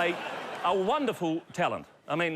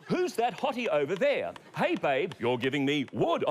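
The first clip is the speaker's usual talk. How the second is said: leering dummy voice. Acted.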